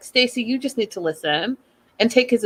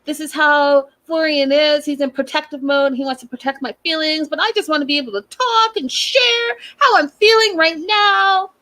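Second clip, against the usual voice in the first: higher, whiny fake-tearful voice; much higher mock sob voice for a crying wife; mock crying Stacy; 6 semitones higher than usual. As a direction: whimper it like a hammed-up pity party. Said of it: "And Stacy's like".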